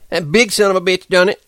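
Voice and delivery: high, loud, fast rant; Curly accusing the big man, high and furious. A narrator's reading. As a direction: spit it out in a rage. Curly raging over the body.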